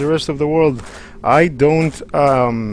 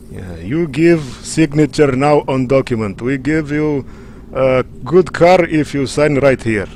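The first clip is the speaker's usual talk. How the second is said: mock Russian salesman accent, broken English; a light put-on Russian accent, pushing a deal. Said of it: "They sound like Russians".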